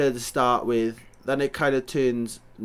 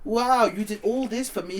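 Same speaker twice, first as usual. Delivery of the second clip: higher, slow dreamy voice; mock swooning; 7 semitones higher, slower than usual. Girlfriend gushes over the mess, mock swooning. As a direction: gush it like she's touched. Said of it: "them just being like".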